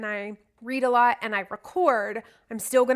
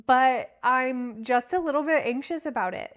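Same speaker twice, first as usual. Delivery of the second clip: anxious words said with a smile; smiling while speaking; 3 semitones higher, 4 dB louder than usual. Real, not acted. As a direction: smile through the nervous admission. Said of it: "I'm smiling as I say that, if you can hear it in my voice".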